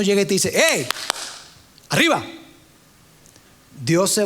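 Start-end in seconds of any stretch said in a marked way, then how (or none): 0.5-0.9 mock shout. Preacher showing how God does not speak, mock shout. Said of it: "Dios no grita". 1.9-2.3 rousing call with a leap in pitch; mock shout. Preacher showing how God does not rouse the exhausted, mock shout. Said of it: "Dios no grita".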